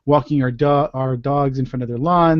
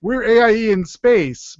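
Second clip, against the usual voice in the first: much higher, louder indignant retort; high indignant protest; 10 semitones higher, 5 dB louder, much slower than usual. Retold or imitated. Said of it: "and I'm like".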